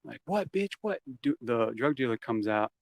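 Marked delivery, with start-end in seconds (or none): 0.3-1.0 high, soft-volume taunting yell; mock shouting. Teen and friend goading the second story, mock shouting. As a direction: goad someone upstairs, pitched way up. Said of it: "right here shouting to the second story".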